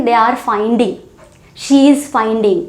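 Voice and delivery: each word drawn out slowly for learners; deliberate teacher pacing; slow model phrase. Shown as a demonstration. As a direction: say it slowly so the class can follow. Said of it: "teacher models the sentence".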